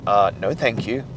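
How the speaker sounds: low, dry polite refusal; the mind declining, muted; mind refusing. Retold or imitated. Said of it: "your mind is gonna be like".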